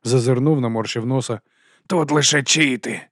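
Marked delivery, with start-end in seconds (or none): 1.9-3.0 slow, louder let-down drawl; disappointed drawl. Acted. Boss finding only chits, slow disappointed drawl. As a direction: stretch it out, disappointed. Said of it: "протягнув розчаровано".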